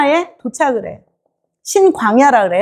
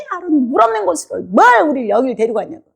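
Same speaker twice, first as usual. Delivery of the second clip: normal talking voice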